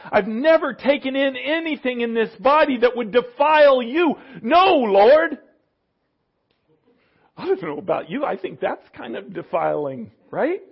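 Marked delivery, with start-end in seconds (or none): 0.1-5.4 rising to a loud, higher no Lord; mock indignant Peter, louder at the end. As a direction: build from protest to an emphatic refusal. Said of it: "Thinking back of what the law was".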